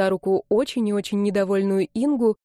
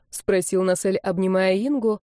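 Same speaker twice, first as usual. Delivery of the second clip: ordinary delivery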